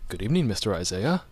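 lightly voiced proper butler; a hint of formal, measured butler greeting. Shown as a demonstration. Host trying out a butler voice for his co-host, lightly proper. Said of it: "Ooh, proper".

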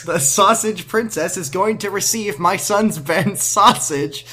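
slow, high mock announcer voice; hammed-up public address; school PA announcement. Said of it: "announcing it to the school".

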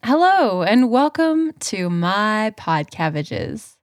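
announcer intro. Pretend. Mock intro take.

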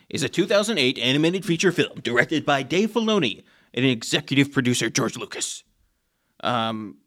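announcer-style movie recap read. Acted. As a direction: read it like a trailer narrator. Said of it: "Do you like my recap voice?".

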